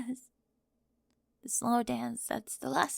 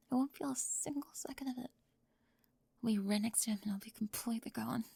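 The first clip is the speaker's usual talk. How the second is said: softer, drained whisper; hollow quiet; 4 dB quieter, faster than usual. Acted. Spring admitting to Raven in a drained whisper. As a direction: let it fade to nothing.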